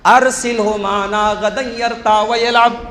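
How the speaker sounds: slow chanted Arabic verse; Quranic recitation. Acted. Preacher chants the sons' verse to the congregation. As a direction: recite slowly in tilawat.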